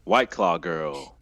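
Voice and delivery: announcer reveal. Pretend.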